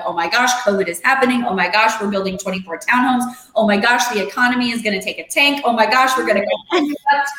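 fast, rising mock panic. Retelling her covid worries, fast mock panic. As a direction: rattle off the worries in a spiral. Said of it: "I went on this emotional tailspin".

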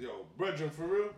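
imitating a Jamaican Puerto Rican accent. Coworker greeting a fellow islander, imitated Jamaican accent. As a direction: Jamaican lilt, rising on the question. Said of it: "When I heard this fucking guy's accent".

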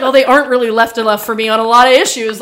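bragging. Retold or imitated. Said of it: "I did start to feel embarrassed 'cause I was like".

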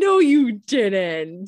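slow, laughing disbelief. Real, not acted. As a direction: laugh out the denial.

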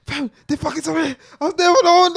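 loud mock fuming quote; mock angry friend.

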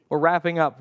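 said through a laugh; amused repeat. Real, not acted. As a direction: laugh at your own slip. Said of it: "those are two different sentences".

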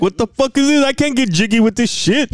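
high, hammed-up disbelief; kid's exaggerated what-is-this; mock outrage. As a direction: act baffled at the weird gift. Retold reaction to the dog.

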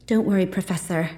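forced cheer, reassuring; forced good cheer. A narrator's reading. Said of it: "with as much good cheer as I could manage".

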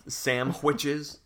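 "sandwiches" said as "sam-kwitches"; misspelled sandwiches. Shown as a demonstration. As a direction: say "sandwiches" with an m and a hard kw. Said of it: "he always spells it like that".

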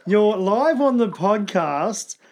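slow, drawn-out words for a puzzled caller; slowly and deliberately, so it gets through; slow repeat. Real, not acted. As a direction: spell it out slowly.

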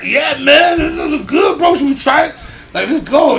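high, loud hammed-up eagerness; mock eager agreement. Buddies agreeing to a late taco run, loud mock eagerness. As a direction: get everyone fired up to go. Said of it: "And we're like".

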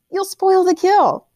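father calling out a warning to the farmer. A narrator's reading. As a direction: call it out slowly, firm. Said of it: "Amund called to the farmer".

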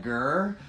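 playful little cat growl; kitty cat growl. Retold or imitated. Teasing growl at the waiter across the bar. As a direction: growl like an angry kitten. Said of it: "aggressive kitty cat".

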